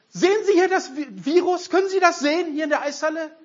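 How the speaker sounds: a high, rushed mock reporter asking about the virus. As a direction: pitch it high and hurry, like a pushy reporter. Retells Lukaschenko interview.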